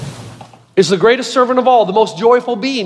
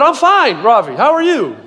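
higher-pitched, over-friendly cover-up, acted; saving face; 3 semitones higher than usual. Pastor recovers after doubting a caller, mock face-saving politeness. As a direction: act suddenly polite to cover your blunder. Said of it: "Trying to save face".

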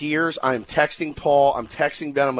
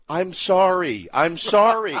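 mouthed apology; 3 semitones higher, slower than usual. Retold or imitated.

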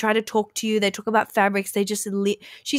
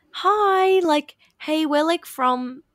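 higher, bright mock greeting from friendly strangers; cheery guys' voice; 7 semitones higher, much slower than usual. Imitating the friendly men greeting her at work, higher and cheery. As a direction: chirp it like an eager stranger. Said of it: "these guys are like".

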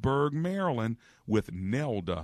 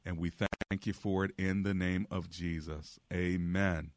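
earnest pleading prayer. Real, not acted. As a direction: pray earnestly for the caller. Host leads prayer on air.

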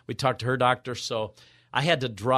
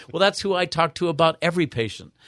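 doctor's voice; 6 semitones higher, 3 dB louder than usual. Retold or imitated. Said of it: "wonderful gentleman from England".

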